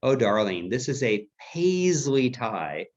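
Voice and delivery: imitated British mother, slow and drawn out; British accent. Mother naming her son's tie, imitated British accent. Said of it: "my mother had a British accent".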